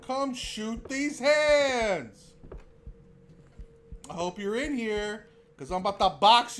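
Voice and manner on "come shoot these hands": slow, loud taunt; hammed-up tough-guy taunt; mock taunt. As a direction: challenge the ghost to fight. Taunting the monster.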